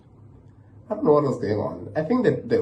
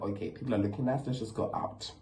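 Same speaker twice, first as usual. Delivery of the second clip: hushed whisper; 2 semitones lower, 12 dB quieter, faster than usual. Retold or imitated. Whispering to leave.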